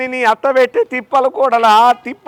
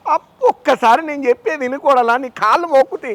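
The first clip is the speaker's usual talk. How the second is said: raised-pitch, worked-up protest; exasperated pleading; 4 semitones higher than usual. Acted. Uncle begging his nagging daughter-in-law to listen, exasperated pleading.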